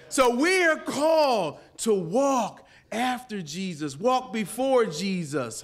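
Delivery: preaching. Acted. Preaching at full force.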